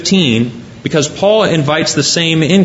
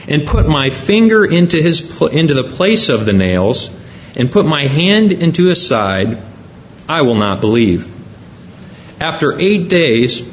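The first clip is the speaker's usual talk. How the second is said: measured, formal Bible reading; solemn reading of the Gospel aloud; scripture reading. Acted. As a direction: read the passage to the congregation with weight. Preacher reads the gospel passage.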